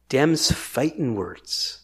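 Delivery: low, slow drawl; folksy warning. Acted. Preacher warning that this is sedition, low slow drawl. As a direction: land it slowly like a challenge.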